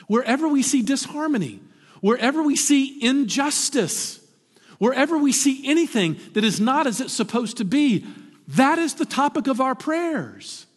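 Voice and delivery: high, loud preaching build; rising pulpit fervor; preaching at full force. Acted. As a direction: drive the list home from the pulpit. Builds list to a climax.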